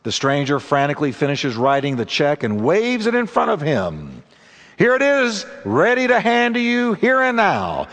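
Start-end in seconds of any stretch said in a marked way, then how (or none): 4.8-7.9 high-pitched, insistent pitch to a seller; urgent offer. A narrator's reading. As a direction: press the deal, voice pitched up high. Stranger urges Jake with the check.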